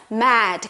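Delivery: "mad" said with dropped-jaw "æ"; open vowel in mad. Shown as a demonstration. Teacher repeating the vowel, open-jawed "mad". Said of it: "이 턱이 딱 내려오게".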